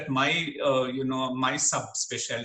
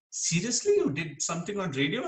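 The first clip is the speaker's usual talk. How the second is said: incredulous; 2 semitones higher than usual. Retold or imitated. Own kids' disbelieving question, acted.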